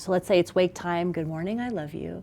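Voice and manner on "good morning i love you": softer, quieter good morning, I love you; soft repeat. Retold or imitated. Parent repeating the waking greeting, soft and quiet. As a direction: murmur it gently at wake time.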